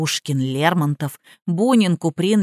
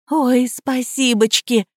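higher, slow cutesy thanks; mock sugary higher thanks; gushing thanks; 4 semitones higher, slower than usual. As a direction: play the grateful simpleton. Heroine's fake gratitude.

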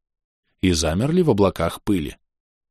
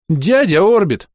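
put-on high, loud girlish squeak of protest; shrill little protest, pitched way up; 10 semitones higher, 5 dB louder, slower than usual. A narrator's reading. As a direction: squeak out an indignant objection. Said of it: "протестующе пискнула Роска".

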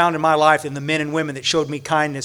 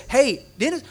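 can't wait to hear the answer; curious call; 7 semitones higher than usual. Retold or imitated. Speaker calling to Dennis as he returns, eager. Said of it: "I said".

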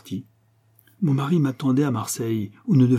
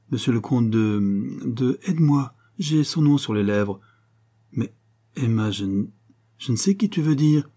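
halting, searching for the name; flustered hesitation. Acted. Embarrassed sister pretending to forget the patient's name, flustered. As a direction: stall in embarrassment, breaking off mid-phrase.

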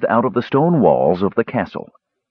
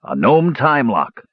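slow, higher-pitched triumphant announcement; 6 semitones higher, slower than usual. A narrator's reading. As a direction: announce the discovery with relish, drawn out. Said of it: "said Dugan triumphantly".

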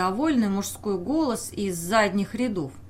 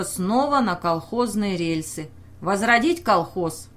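rousing speech. Acted. Bashlykov harangues the meeting.

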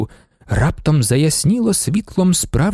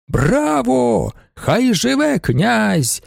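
high, slow rousing cheer; 9 semitones higher, much slower than usual. A narrator's reading. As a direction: cheer the prince with the crowd. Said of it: "залунали вигуки".

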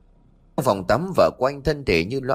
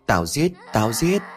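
hoarse hissing voice. Acted. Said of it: "giọng khàn khàn xa lạ rít lên".

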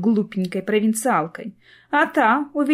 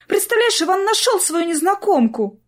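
high, excited rush of news; blurted out; 10 semitones higher than usual. A narrator's reading. Sister bursting with news to Clara, high excited blurt. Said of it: "выпалила Полина".

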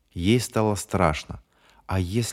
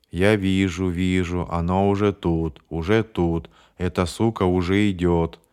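eerie monotone. Acted. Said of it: "страшной монотонностью".

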